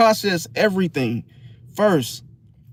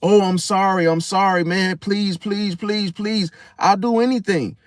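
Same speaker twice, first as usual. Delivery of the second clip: mock begging. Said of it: "now they're in a begging state".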